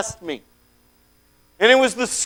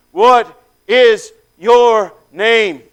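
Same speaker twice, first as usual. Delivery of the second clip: calm question; 6 dB louder, much slower than usual. Acted. Stranger calmly asks the demon name.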